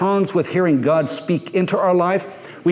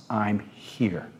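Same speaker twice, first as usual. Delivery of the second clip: hushed reply; 8 semitones lower, 10 dB quieter than usual. A narrator's reading. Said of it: "and Moses responds".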